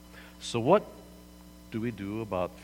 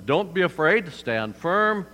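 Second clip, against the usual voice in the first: Moses commanding; 6 semitones higher, 4 dB louder than usual. Retold or imitated. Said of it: "says to them".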